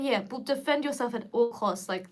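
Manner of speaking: ordinary talk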